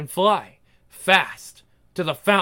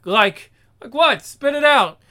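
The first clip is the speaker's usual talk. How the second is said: impatient demand; 4 semitones higher, 5 dB louder than usual. Acted. Impatient partner demanding an answer.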